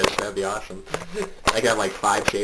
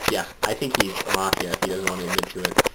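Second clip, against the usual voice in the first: mouth on the microphone. Real, not acted. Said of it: "Are you eating your fucking microphone?".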